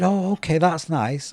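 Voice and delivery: politely underwhelmed, soft-edged imitation; imitated polite indifference; unimpressed. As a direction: retell a mild, noncommittal reply. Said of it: "He wasn't impressed".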